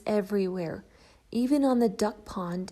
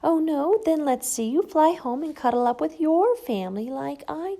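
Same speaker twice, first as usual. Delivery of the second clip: taunting; 6 semitones higher, 4 dB louder than usual. Acted. Bird taunts Shelley.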